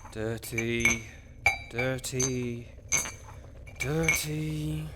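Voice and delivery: rising annoyance word by word; growing exasperation. Acted. Necromancer checking each mug, building exasperation. Finding only dirty mugs.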